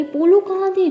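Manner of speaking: aunt demanding where they were, loud; angry demand. Acted. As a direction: press them hard with बोलो. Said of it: "तो ताई में तारा कहती".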